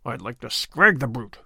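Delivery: a low, grumbling threat under the breath; savage mutter. A narrator's reading. Sir Andrew grumbles about the innkeeper, low savage mutter. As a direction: growl it low, wanting to hit the brute. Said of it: "muttered Sir Andrew savagely".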